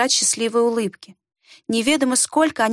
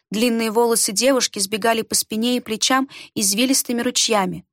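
ordinary delivery

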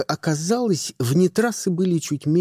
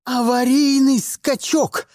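barked order; 6 semitones higher than usual. A narrator's reading. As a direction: snap the order out in panic. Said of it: "рявкнула она". (громко и резко рявкает приказ)

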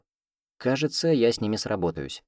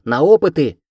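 excited cry; 7 semitones higher, 10 dB louder than usual. A narrator's reading. Students cry for experiments.

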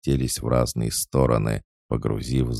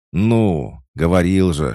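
loud, higher scolding; exasperated outburst; 7 semitones higher, 7 dB louder than usual. A narrator's reading. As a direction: scold the men in alarm. Boss snaps at his men.

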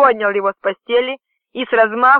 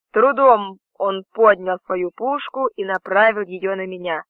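plain reading voice

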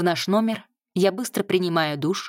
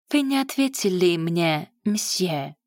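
put-on French accent. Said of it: "всё с тем же акцентом продолжаю".

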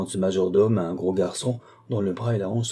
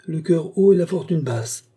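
high, loud, sententious jibe; haughty sneer; 8 semitones higher, 5 dB louder than usual. Acted. Canoness commenting on the insolent poor visitor, disdainful. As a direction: pronounce judgement on the upstart.

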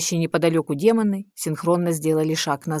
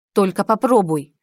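a louder, growling threat; growled; 3 semitones higher, 5 dB louder than usual. A narrator's reading. Heroine threatening the demon, growled threat. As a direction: snarl the threat at him. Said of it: "прорычала я".

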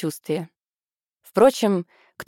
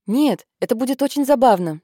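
higher-pitched eager insistence; insistent; 6 semitones higher, 4 dB louder than usual. A narrator's reading. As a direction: press the fun idea on a reluctant sister. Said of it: "настаивала Гарриет".

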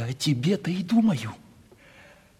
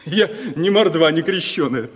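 со смехом; 3 semitones higher, 3 dB louder than usual. Acted. Шутливо хвастается.

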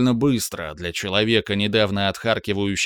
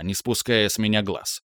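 ordinary delivery

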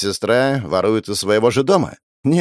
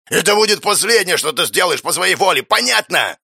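higher, raised threatening voice; menacing threat; 8 semitones higher than usual. Acted. Brother threatens thieving sister in a raised menacing voice. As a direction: warn her it is the last time.

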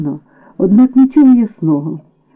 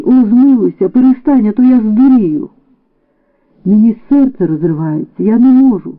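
desperate plea; 4 semitones higher than usual. Acted. Olena begs her weeping sister Irynka to stop crying. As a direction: beg her to stop before you break.

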